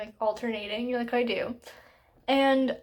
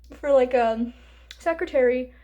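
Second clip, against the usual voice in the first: talking through hiccups; hiccuping; 4 dB louder than usual. Real, not acted. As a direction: hiccups breaking the words. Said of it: "I'm hiccuping".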